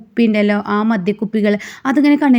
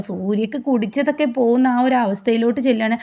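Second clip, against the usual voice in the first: ordinary delivery, nothing marked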